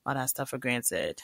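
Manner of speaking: unvoiced hushed confession; whisper. Real, not acted. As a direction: drop to a breathy whisper. Earnest aside, voice drops.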